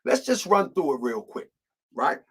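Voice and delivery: smooth radio host delivery. Shown as a demonstration. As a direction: read it like a DJ. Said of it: "I'm gonna change my, uh, my radio voice too".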